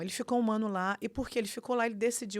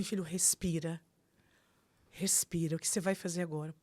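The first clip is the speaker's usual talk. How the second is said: centred, composed father. Retold or imitated. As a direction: calmly coach the son to breathe. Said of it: "o Flávio é muito centrado". (imitando o pai que acalma o filho)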